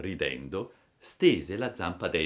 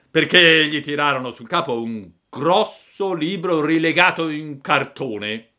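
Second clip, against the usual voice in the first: put-on loud, raised old-man voice; little old man; 8 semitones higher, 9 dB louder than usual. A narrator's reading. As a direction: reassure loudly as an elderly villager. (vecchietto a voce forte)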